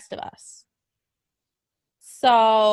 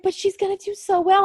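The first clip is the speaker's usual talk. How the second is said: mock fans; 9 semitones higher than usual. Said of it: "everybody's like".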